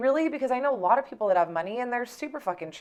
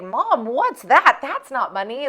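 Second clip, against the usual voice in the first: put-on curious little kid; 3 semitones higher, 7 dB louder, slower than usual. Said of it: "the kid's like".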